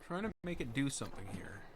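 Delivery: unvoiced whisper while fiddling with the game; hushed private muttering at the screen; whisper to self. Real, not acted. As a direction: whisper it under your breath, concentrating.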